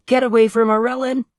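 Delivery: high, loud heroic roar. A narrator's reading. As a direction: roar it like a hero. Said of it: "roaring the line".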